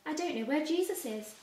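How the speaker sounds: urgent plea, voice up and loud. Acted. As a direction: blurt it out in a panic. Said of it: "Mary said urgently".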